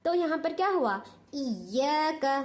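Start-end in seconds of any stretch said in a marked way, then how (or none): 1.3-2.4 इय्याका with the doubled ya lifted, slowly; slow recitation with nabr on इय्याका; stressed doubled ya. Shown as a demonstration. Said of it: "आवाज़ को ऊपर उठा को डालना".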